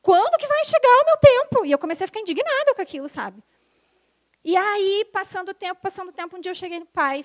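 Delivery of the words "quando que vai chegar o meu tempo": high, pleading outburst; louder, higher cry of being overworked; exasperated complaint. Retold or imitated. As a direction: let it spill out, worn down and fed up. Frustrated outburst at work.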